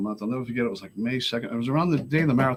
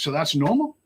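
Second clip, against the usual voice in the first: slightly raised, questioning counselor; puzzled question; 4 semitones higher than usual. Retold or imitated. Counselor asks him about the feds' visit, puzzled. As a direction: ask it in controlled disbelief.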